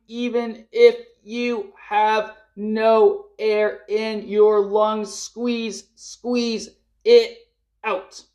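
slow, high, straining push as if out of air; strained urging. Real, not acted. Coach urging group to squeeze out last air, slow high strain. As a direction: squeeze the words out with the last breath.

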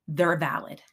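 slow, hushed whisper; slow stage whisper of a motto; whispered emphasis. Shown as a demonstration. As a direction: whisper it like a secret worth keeping. Repeating the key point.

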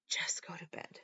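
soft breathy whisper to herself. Retold or imitated. Mother alone with the bottle whispers to herself. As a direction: barely breathe the words. Mom talking herself out of drinking.

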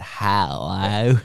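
drawn-out broad Australian hello; Australian accent. Retold or imitated. Host repeating a funny greeting, very Australian. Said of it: "it was very Australian".

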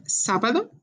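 sábado with the weight on SÁ; teacher marking where the accent falls; first-syllable stress. Shown as a demonstration. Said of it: "the accent is on the first part of the word".

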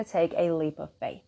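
half-whispered, breathy secret to herself; whispered aside. Retold or imitated. Whispering to herself while building up her courage. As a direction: let the words drop to a hush. Retelling her own pep talk.

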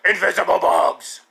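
hoarse mock shout; imitated rage. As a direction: yell it like a caricature of a raging man. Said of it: "I could just see the rage".

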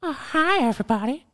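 put-on high, thin creepy old man voice; Herbert the pervert impression. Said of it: "Can you, can you do Herbert the pervert?".

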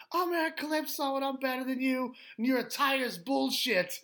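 high, loud heavy Massachusetts trash talk; mock a cocky Massachusetts wrestler; exaggerated Boston-area accent, talking trash. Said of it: "with the heaviest Massachusetts accent".

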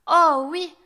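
put-on high, loud, eager child's reply; little girl's emphatic yes. A narrator's reading. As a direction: pipe up as a keen little girl. Child answers the wolf.

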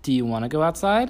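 sing-song rising question. Real, not acted. Asking toddler.

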